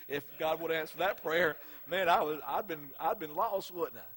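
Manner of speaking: loud, rising preacher's cry; fervent preaching. Real, not acted. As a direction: preach it out with full force. Preacher builds to a climax.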